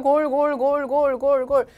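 loud repeated goal shout; goal call. Shown as a demonstration. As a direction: chant the goals like a commentator. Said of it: "골이 몇 번이죠".

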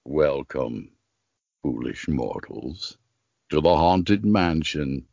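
deep, slow spooky ghost host; low, drawn-out haunted-house greeting; Paul Frees ghost host. Retold or imitated. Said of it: "you sound exactly like him".

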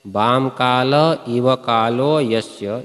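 very slow, word by word, each syllable drawn out; बाम काल इव कालो यस्य spoken very slowly, syllable by syllable; slow recitation. Shown as a demonstration. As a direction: recite it slowly, like reading from the text. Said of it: "कहाँ पर जो लिखा है".

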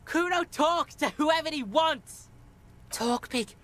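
put-on cocky street-kid bravado; Kuno's street-kid voice. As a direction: brag like a defiant young tough.

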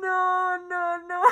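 weak, teary laughing moan; crying with laughter. Real, not acted. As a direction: moan it while trying to stop laughing. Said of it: "Estoy llorando".

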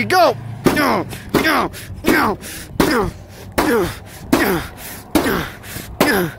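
yelling no. Acted. Smashing the TV with a hammer.

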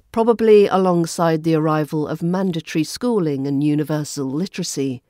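usual speaking voice

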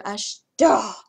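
flustered stumble while deciding whether to go. Real, not acted. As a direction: trip over it flustered. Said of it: "See, I'm over here stuttering".

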